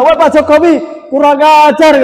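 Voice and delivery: lebih tinggi, membentak setengah bercanda; kurang ajar. Retold or imitated. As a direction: bentak presiden dengan nada tinggi. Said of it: "Masa tiba-tiba". (mengejek dengan nada tinggi, kurang ajar)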